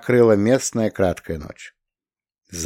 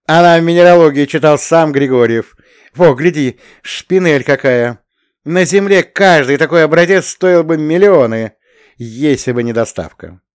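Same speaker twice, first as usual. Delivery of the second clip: excited; 6 semitones higher, 7 dB louder than usual. A narrator's reading. Shura boasts excitedly, laughing.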